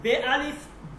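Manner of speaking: বে আলিফ ব, alif read as a short rounded অ; Persian alif sound. Shown as a demonstration. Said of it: "যেমন".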